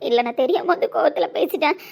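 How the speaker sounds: ordinary talk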